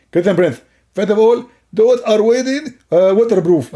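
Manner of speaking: high, lisping character voice; comic opponent. Acted. Opponent explaining to Christian Prince, silly high put-on voice.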